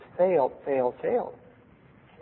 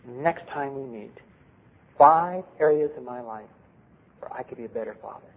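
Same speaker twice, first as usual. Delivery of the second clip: gentle request; 6 dB quieter than usual. Retold or imitated. Father's gentle request to daughter.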